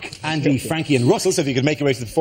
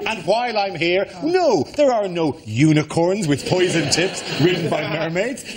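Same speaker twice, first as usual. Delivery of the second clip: ordinary delivery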